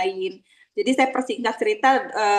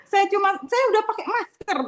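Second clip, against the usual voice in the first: mild mock complaint; 9 semitones higher than usual. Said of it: "Karena bapaknya marah-marah".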